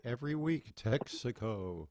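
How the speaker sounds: lightly imitated radio announcer; Milton Cross. Host recalling the weekly broadcast, touch of announcer voice. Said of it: "Milton Cross".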